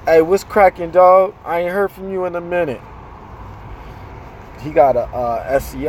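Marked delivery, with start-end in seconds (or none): 0.1-2.8 loud, bright hello to a friend; excited shout-out to a viewer; hyped greeting. Real, not acted. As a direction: call out to the homie, louder.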